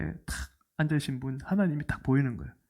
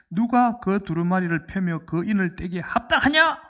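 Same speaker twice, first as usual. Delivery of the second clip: mildly raised proclaiming voice; angel's loud call; 3 semitones higher than usual. Retold or imitated. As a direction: lightly imitate an angel crying out a challenge. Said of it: "큰 음성으로 외치기를".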